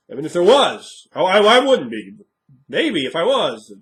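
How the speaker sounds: high, loud, swooping protest; mock flustered denial. Character denying a secret attraction, high loud mock fluster. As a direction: protest too much, pitch leaping up.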